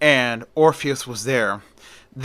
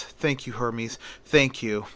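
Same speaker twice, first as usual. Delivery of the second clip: soft grateful thanks; 3 semitones lower, 7 dB quieter than usual. A narrator's reading. Orpheus thanks Hermes, moved.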